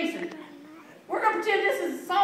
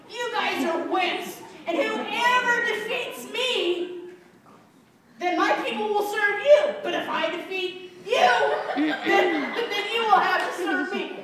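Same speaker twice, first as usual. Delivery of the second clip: slow, drawn-out taunt, mildly raised; Goliath yelling. Acted. Teacher as the giant taunting the army, mock yelling. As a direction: lay down the giant's terms with mock menace. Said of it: "he's just yelling".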